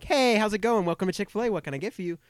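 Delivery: high, loud, bright service voice; chirpy drive-thru cashier greeting; customer service voice. Shown as a demonstration. Chick-fil-A worker greets drive-thru customers, high bright service voice. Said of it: "this customer service voice I go into".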